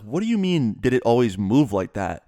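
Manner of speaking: mildly incredulous echo of her question; retold incredulous question. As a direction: imitate a baffled son challenging his mom. Son disbelieves mom's odd question.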